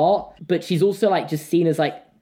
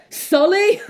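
very high squeaky "Sully?" on a rising end; 4 dB louder than usual. Retold or imitated. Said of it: "I'll be like".

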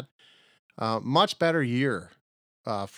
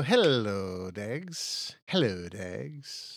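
slow, stretched-out hello; drawn-out comic greeting; much slower than usual. Real, not acted. Cohost saying hello to his host, drawn out. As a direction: draw the greeting out playfully.

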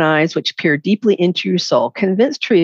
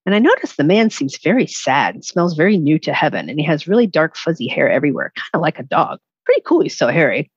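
reading a dog's first-person story aloud, gently. Acted. Author reading her book's prologue to the host, storytelling voice. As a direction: read the prologue like a heartfelt storybook.

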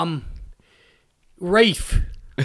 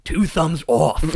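movie-trailer henchman; 2 semitones lower, slower than usual. Acted. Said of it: "talks like it's a movie trailer".

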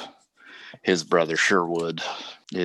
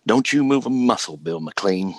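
angry command; 6 semitones higher, 5 dB louder than usual. Acted. Outlaw barking an order.

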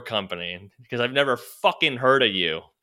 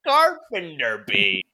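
very high, slow mock stand-up delivery; stand-up comic parody; much slower than usual. Joking that the salesman turned stand-up comic, very high and slow. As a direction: drag it out like a hack comedian. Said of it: "he grabbed a microphone and he goes".

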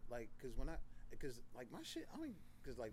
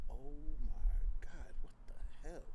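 whispered disbelief; 7 dB louder, slower than usual. Retold or imitated. Retold shock after breakup.

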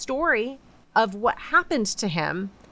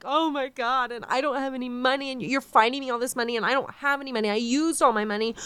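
high-pitched, whiny imitation of weeping; mock weeping; 5 semitones higher, faster than usual. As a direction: retell a rushed, tearful protest in a higher voice. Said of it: "he's weeping and like".

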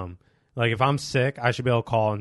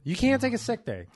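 high-pitched parody of an unyielding boss; mock boss refusal; 12 semitones higher than usual. Mimicking strict bosses refusing leave.

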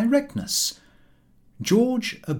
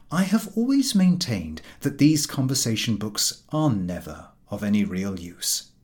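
plain reading voice

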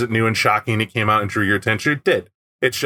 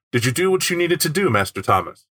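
sinister chauffeur voice; 3 semitones higher than usual. Shown as a demonstration. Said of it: "you could also read it as".

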